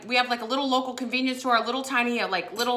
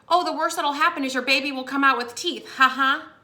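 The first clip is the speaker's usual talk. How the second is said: lightly imitated nurse, pitched up; dismissive nurse; 5 semitones higher, 4 dB louder than usual. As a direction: brush it off with a mock ha ha. Retelling nurse's dismissive joke.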